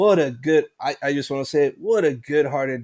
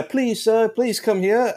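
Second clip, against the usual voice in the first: pleading, pitched well higher, on Please and sir; mock begging; 8 semitones higher than usual. Host imitating his begging email to the bartender, high mock plea. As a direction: beg like a fan pleading for a hire. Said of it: "but yeah".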